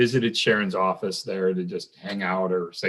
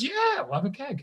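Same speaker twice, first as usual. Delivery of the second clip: imitating Sharon's accent; 5 dB quieter than usual. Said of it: "it involves Sharon's accent".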